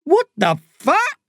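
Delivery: a lightly voiced guard caught off guard; stunned. A narrator's reading. Prison guard stunned to see a boy. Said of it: "stunned by the sight".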